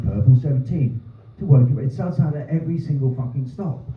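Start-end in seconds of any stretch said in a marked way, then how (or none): 0.0-1.8 lightly mimicked automated announcer voice; bus announcement. Comic shows the bus tannoy right after predicting it, lightly mimicked. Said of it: "It went".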